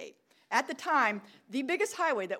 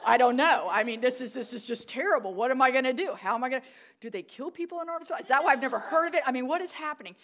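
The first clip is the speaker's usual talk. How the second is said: retelling a mounting freak-out; mock panic; 2 semitones higher, 4 dB louder, faster than usual. Lost cyclist spiralling over Arnoldsville, mock panic. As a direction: rattle off worried questions in mock panic. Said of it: "I am really starting to panic and freak out".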